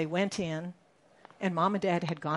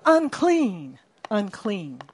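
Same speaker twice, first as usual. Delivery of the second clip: the lepers' expected warning, shouted loud; 8 dB louder, slower than usual. Retold or imitated. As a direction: cry out unclean to warn people off. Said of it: "They were supposed to be shouting".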